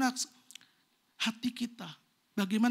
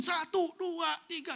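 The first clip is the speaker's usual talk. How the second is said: put-on kids counting; 5 semitones higher, slower than usual. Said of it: "dia ngitungin".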